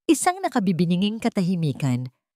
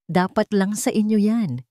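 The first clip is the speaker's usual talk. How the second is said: venomous; 4 semitones higher than usual. Acted. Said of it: "puno ng kamandag at galit".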